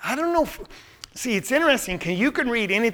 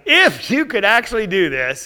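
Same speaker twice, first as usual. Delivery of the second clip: mildly skeptical challenge; understated arrogant dare; sarcastic. Acted. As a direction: stress the doubt in IF. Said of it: "it could be sarcastic".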